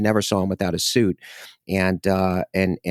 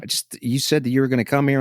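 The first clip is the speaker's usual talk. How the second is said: lightly voiced cop, hurried; hint of a chatty cop; quick mock cop voice; 5 semitones higher, faster than usual. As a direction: rattle it off as the cop. Cop quoted in story.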